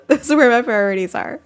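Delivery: laughing so hard the words crack; giggling through "priorities"; laughing repeat. Real, not acted. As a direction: say it again while laughing.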